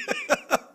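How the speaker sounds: sudden high laugh, falling away; real burst of laughter. Real, not acted. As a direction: break into an embarrassed laugh. Laughing at own cursing. (민망한 웃음 터뜨림)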